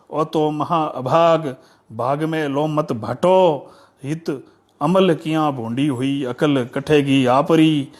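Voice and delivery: measured, metrical poem reading; declaimed folk poetry with pauses at each phrase; verse recitation. Acted.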